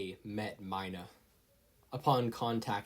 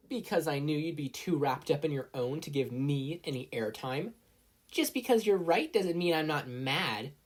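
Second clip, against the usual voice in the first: mild bickering; 5 semitones higher than usual. Acted. Two girls quarrel after match.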